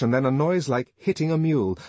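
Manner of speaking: ordinary delivery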